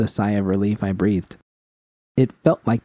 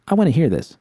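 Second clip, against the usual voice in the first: scoffing; 6 semitones higher, 3 dB louder, faster than usual. A narrator's reading. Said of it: "V scoffed".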